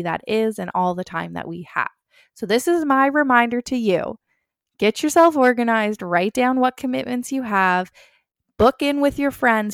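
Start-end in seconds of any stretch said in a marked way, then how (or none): 2.3-9.7 upbeat pep talk. Acted. Motivational closing push.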